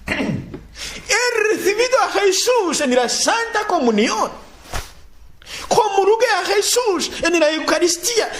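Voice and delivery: fervent exclaiming. Acted. Preacher acting a fervent believer.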